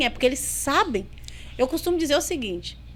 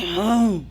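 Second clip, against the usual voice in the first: demon grunt; 5 semitones lower, 6 dB louder than usual. Retold or imitated. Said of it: "Chegou com a mão pra trás".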